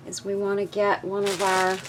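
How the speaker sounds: talking while crunching; words over a crunchy bite; crunching chips. Real, not acted. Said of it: "Sorry about the crunching".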